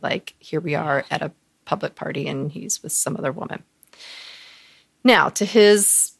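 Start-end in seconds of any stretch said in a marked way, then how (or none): 0.0-3.6 hushed, breathy secret whisper. Real, not acted. She confides the party scandal to the host in a whisper. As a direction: lean in and whisper it.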